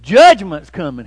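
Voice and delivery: loud, slow insistent cry; the runner yelling back at his neighbors; frantic cry. Retold or imitated. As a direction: shout it with conviction. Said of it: "He said".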